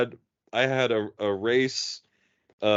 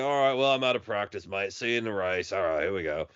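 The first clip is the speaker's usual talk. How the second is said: mock Aussie. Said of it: "a proper Aussie".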